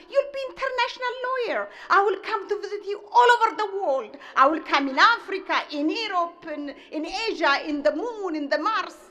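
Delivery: mother dreaming big for her son; gushing mother. Retold or imitated. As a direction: run on with proud excitement. Mother gushing over lawyer plan.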